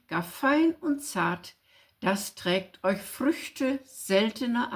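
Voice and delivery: verse read out deliberately, phrase by phrase; poem recitation. Acted. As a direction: recite a Christmas poem line by line. Reads a riddle poem aloud.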